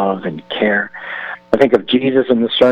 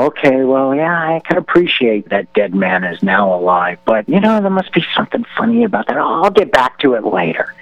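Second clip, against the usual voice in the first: dismissive brush-off; 4 semitones higher than usual. Retold or imitated. Voicing a too-busy crowd.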